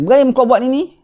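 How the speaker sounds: soalan menuduh. Acted. Kaum menyoal Ibrahim.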